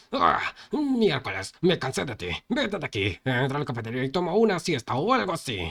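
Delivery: high, irritated shout; angry yell. Acted. Bully driving the fat boy off, angry yell. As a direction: snap at him to get out. Fed-up bully yelling someone off.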